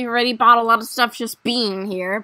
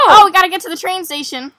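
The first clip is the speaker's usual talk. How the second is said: fast, higher, louder rush of words; excited, racing delivery; hurried urgency; 3 semitones higher, 7 dB louder, much faster than usual. Real, not acted. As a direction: hurry a friend along. Rushing to catch the train.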